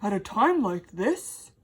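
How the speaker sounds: breathy gasp of a startled spider; small spider gasping in alarm. A narrator's reading. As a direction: gasp it out, caught off guard. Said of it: "gasped the spider".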